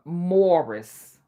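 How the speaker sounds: MORRIS drawn out with an "or" vowel; own pronunciation. Shown as a demonstration. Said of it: "I say Morris".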